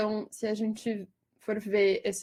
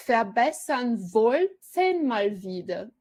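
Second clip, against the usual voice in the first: verbessern wollten mal wieder, louder with a break before wollten; stress with caesura; 5 dB louder, slower than usual. Shown as a demonstration. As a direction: lecturer demonstrating the caesura, slow and louder. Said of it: "duas fortes ... uma cisão".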